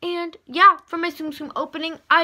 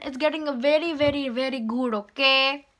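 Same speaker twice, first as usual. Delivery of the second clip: playful put-on Indian accent; light comic Indian accent; amateur Indian accent; 4 dB louder than usual. Shown as a demonstration. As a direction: boast in a hammed-up Indian accent. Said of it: "my Indian accent is getting a".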